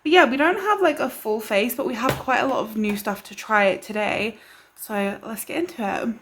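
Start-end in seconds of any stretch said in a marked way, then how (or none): 1.8-6.2 breathless after a rushed intro; slightly out of breath, winding down. Real, not acted. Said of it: "Oh, I feel out of breath after that intro".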